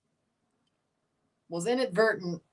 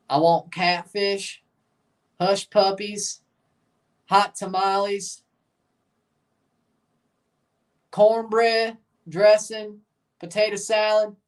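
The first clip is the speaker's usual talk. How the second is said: Southern accent. Shown as a demonstration. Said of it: "Listen to my damn accent".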